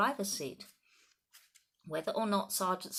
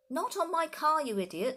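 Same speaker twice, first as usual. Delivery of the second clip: much higher, loud furious bellow; 9 semitones higher, 6 dB louder than usual. A narrator's reading. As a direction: roar at the fool. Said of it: "Mister Hazel bellowed".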